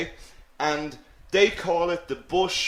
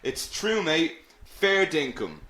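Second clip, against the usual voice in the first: milder take on a bad Aussie accent; lightly put-on Australian accent. Shown as a demonstration. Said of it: "That was a very bad Australian accent".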